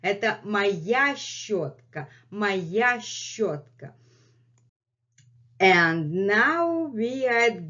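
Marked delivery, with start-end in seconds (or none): 0.0-3.9 Messi's voice. Pretend. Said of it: "And Messi is saying".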